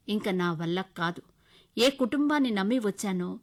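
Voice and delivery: firm refusal. Acted. Wife refusing husband on phone.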